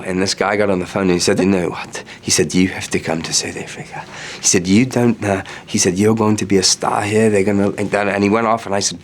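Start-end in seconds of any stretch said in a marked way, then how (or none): 1.4-4.0 imitated South African accent; South African friend. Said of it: "I talk like him all the time". 4.7-5.4 imitated South African accent; South African friend. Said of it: "I talk like him all the time". 6.0-7.7 imitated South African accent; South African friend. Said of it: "I talk like him all the time".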